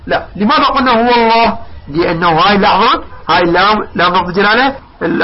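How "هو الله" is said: "الله" with a dark double l; heavy lam. Shown as a demonstration. Teacher asks why it is so, heavy lam in "الله". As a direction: thicken the lam of "الله" after "هو". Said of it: "ففخمناها".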